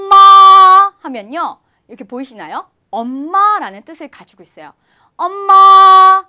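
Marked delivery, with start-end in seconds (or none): 0.1-0.9 마 held long, high and level; first tone. Shown as a demonstration. Teacher demonstrating ma in first tone, high level 마. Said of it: "일 성으로 발음하면". 5.2-6.2 엄마 with 마 held long, high and level; first-tone likeness. Shown as a demonstration. Teacher likening Korean mother to first tone, high 엄마. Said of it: "약간 비슷하죠?".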